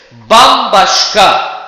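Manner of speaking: "Bambaşka" slow and loud, punching bam; stress on BAM. Shown as a demonstration. Teacher demonstrating word stress on "Bambaşka". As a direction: hit the first syllable of "Bambaşka" hard. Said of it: "bam'ı ne yapıyoruz arkadaşlar? Vurgulamış oluyoruz".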